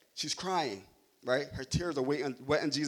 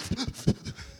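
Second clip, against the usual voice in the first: mock stuttering sniffles, unvoiced; stifled crying; 8 semitones higher than usual. Shown as a demonstration. Preacher shows congregation how a child stops crying, mock sniffling. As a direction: imitate gasps of trying to stop crying. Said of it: "when you try to stop crying and you do".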